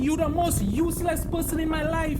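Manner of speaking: angry shouting. Real, not acted. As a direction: yell it at him, hurt and furious. Real family argument, shouting.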